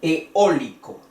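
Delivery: Eólico with a firm Ó after short E; stress on the O. Shown as a demonstration. Teacher repeats the example, Eólico stressed on the O. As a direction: land on the O of Eólico. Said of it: "El acento va en la O".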